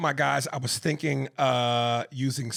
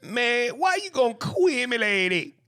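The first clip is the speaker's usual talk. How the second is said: rapper impression; 9 semitones higher, 5 dB louder than usual. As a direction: mimic a rapper's ad-lib delivery. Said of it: "A rapper, he said that shit".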